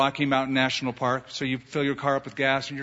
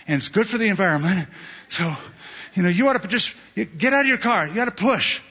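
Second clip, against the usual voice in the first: smug pusher; 3 semitones higher than usual. Retold or imitated. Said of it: "And they say".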